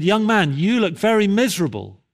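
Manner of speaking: lightly imitated preacher confronting a listener; preacher's address. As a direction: call out one listener, high and emphatic. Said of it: "He said".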